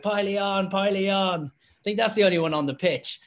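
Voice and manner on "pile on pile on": raised, excited call to join the pile; shouted call to pile on. Retold or imitated. Player calling teammates into the pile, excited shout. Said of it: "was like".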